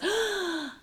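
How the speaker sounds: high sharp gasp; audience gasp. Retold or imitated. Imitating the whole audience gasping as she falls. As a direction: gasp like a shocked theater crowd. Audience gasps at her fall.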